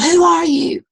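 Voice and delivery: high, loud call into the distance; boy yelling into the hills; retold yell. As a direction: shout it out across the canyon. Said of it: "And he yelled".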